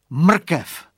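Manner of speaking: high, loud eureka shout; boy's excited cry; exclaiming. Acted. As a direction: burst out with the idea.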